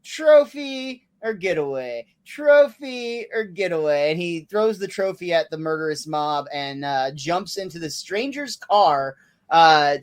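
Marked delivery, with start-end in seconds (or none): 0.0-4.1 Bart's dilemma. Retold or imitated. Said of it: "talks out his dilemma".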